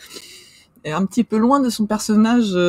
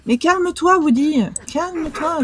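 higher, urgent pleading; pleading calm down; 9 semitones higher than usual. Real, not acted. Streamer pleading with Woody on screen, higher and urgent. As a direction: pitch up and plead with him to settle. Begs the game character to calm down.

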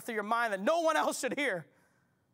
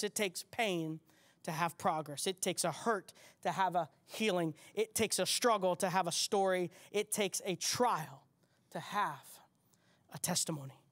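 lower, softer and intimate; softer, lower repeat; 3 semitones lower than usual. Real, not acted. Preacher softly repeating the saying to the congregation, tender. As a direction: draw them in softly. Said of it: "Come on in".

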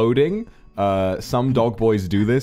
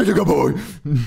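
high, loud, gushing puppy talk; drawn-out doting dog-owner voice; 10 semitones higher, 5 dB louder, slower than usual. Shown as a demonstration. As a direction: coo as if rubbing a Labrador's ears. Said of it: "like, rubbing its ears".

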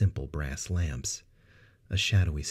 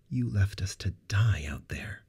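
chilly; 4 semitones higher than usual. Acted. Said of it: "Sarah's chill deepened".

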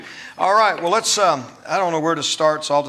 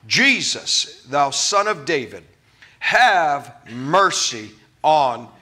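slow, drawn-out plea; measured preacher's rendering of a cry; mild crying out; 3 dB louder, slower than usual. Retold or imitated. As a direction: cry out for mercy, word by word. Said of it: "he began to cry out".

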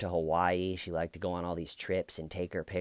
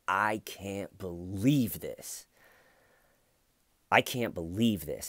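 slow stunned disbelief; slower than usual. Retold or imitated. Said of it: "she just goes".

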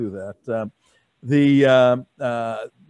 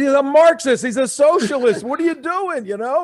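louder, higher scolding; retold heated lecture; 11 semitones higher, 4 dB louder than usual. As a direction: press him hard at the red light. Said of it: "I said".

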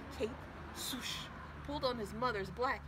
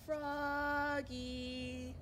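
1 mother calling; 6 semitones higher than usual. Acted.

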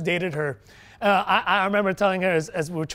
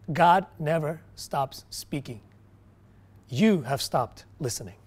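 slow, measured quoted rebuke; pointed rebuke; 5 semitones lower, slower than usual. Retold or imitated. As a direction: lower it and space out each word.

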